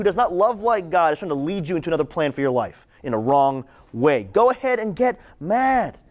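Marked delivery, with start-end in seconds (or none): 4.2-6.0 slow, high emphatic exhortation; drawn-out preacher's urging; emphatic preaching. Real, not acted. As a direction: urge them on, stretching the words out. Urges the congregation while preaching.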